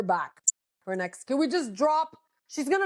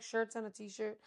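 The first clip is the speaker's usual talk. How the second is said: imitating Kathy; 3 semitones lower, 13 dB quieter than usual. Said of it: "And she's like".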